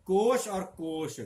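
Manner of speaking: कोश with palatal श then कोश with retroflex ष, slowly; slow, careful कोश and कोष; contrast demo. Shown as a demonstration. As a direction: set the two कोश apart, श then ष. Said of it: "इनमें भी अंतर है".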